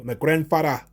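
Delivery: lightly imitated Nigerian accent; a hint of a Nigerian accent; put-on Nigerian accent. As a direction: toss in a word with a mock Nigerian accent. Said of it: "use certain words in that accent".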